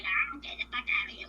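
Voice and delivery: rapid, hushed imitation of a blow-up; garbled, whispery mock tantrum; mock outburst. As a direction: rush it out as a half-voiced mock yell. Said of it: "threw some shit and was like".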